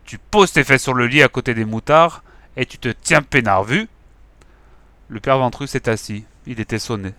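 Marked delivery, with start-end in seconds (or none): 0.1-3.9 firm loud command; ordering. Acted. Gang leader ordering Ventru to sit, firm. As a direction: lay down the law. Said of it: "a ordonné le bigleux".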